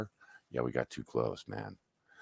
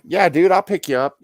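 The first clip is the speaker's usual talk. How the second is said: high, loud, breezy yes; acted-out carefree reply; retold eager agreement; 12 semitones higher, 12 dB louder than usual. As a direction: agree readily, pitched up and loud. Retold willing answer on the phone.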